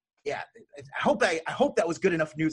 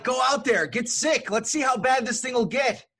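higher, louder mock voice egging people on; mock cheerful dare, pitched up and loud; mocking voice of the careless crowd; 9 semitones higher, 4 dB louder than usual. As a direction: ham it up like a reckless crowd daring folks to get sick. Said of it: "They're like".

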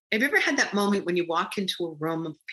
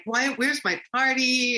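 whining; 6 semitones higher than usual. Retold or imitated. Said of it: "I am now whining".

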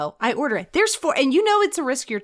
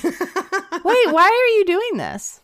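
high, loud laughing demand; shrill frantic demanding; 7 semitones higher, 5 dB louder than usual. Real, not acted. Frantic at friend's hair plan.

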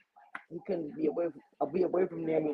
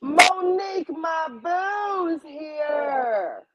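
excited greeting; 11 semitones higher, much slower than usual. Real, not acted. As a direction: greet your best friend, thrilled.

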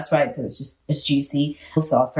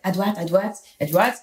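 French directions. Retold or imitated. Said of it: "he's like".

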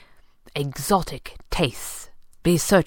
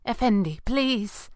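higher, desperate plea; a man pleading to be spared; pleading for his life; 7 semitones higher than usual. Acted. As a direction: beg as if your life depends on it. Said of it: "pleaded as if for his life".

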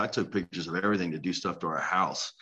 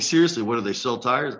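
higher, louder mock-clueless question; rude guest quote; 4 semitones higher, 5 dB louder than usual. Mimicking the guest asking about tires, higher and louder. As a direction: play the oblivious complainer. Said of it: "he's like".

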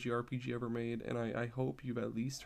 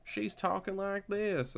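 higher, slow hick cowboy drawl; hick cowboy accent; 9 semitones higher, slower than usual. Retold or imitated. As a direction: imitate a country cowboy, high and drawn out. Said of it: "this more cowboy, like, hick one".

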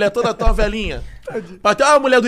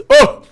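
one loud, sudden "ô"; shouting tic; 7 dB louder than usual. Shown as a demonstration. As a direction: blurt a single loud yelp. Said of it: "Ficava assim".

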